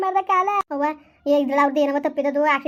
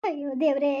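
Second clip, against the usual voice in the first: crying out; 2 semitones lower than usual. Acted. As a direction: lament through tears, calling on God. Mother learns daughter's fate.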